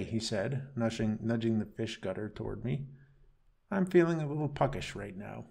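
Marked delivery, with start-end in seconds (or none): 3.7-5.5 mocking. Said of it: "He replied mockingly".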